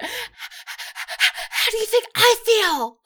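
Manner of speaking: high, drawn-out mock indignant wail; indignant outburst. Sam protesting at the crying babies, indignant. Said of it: "Sam's indignation towards them".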